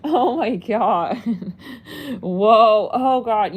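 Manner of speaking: yelping in pain from a foot cramp; laughing through a sudden foot cramp. Real, not acted. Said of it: "I have a foot cramp".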